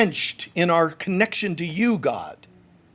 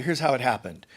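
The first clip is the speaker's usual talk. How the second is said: calm Jesus; 5 semitones lower than usual. Pretend. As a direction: settle it gently like a patient teacher. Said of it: "Jesus would tell you".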